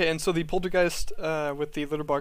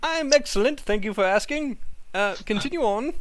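higher, prim cat brushing him off; haughty cat; 5 semitones higher than usual. Acted. Cat player coolly answering the rude ghost, higher. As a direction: answer like a smug aristocrat cat.

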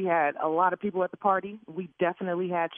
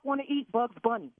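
angry; 2 semitones higher than usual. Real, not acted. Furious victim of prank call.

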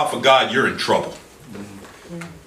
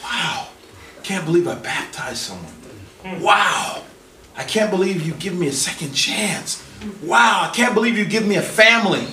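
amazed; 4 semitones higher than usual. Acted. Believer's amazed thanks to God.

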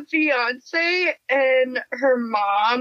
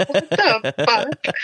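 laughing; slower than usual. Real, not acted. Reacting to ad, still laughing.

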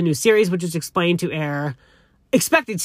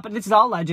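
higher pitch, with weight on "alleged"; stress on alleged; 4 semitones higher than usual. Real, not acted. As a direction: lean pointedly on "alleged". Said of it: "I'm gonna emphasize the word alleged".

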